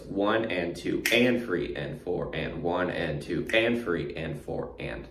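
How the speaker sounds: steady count, leaning on "and" after "two"; stress on the AND after two. Shown as a demonstration. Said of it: "we have a specific accent".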